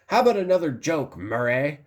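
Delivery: half-hearted mock yell, rushed; Joker. Film fan quoting the talk show scene, mildly imitated yelling. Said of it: "when he's yelling and everything at Murray".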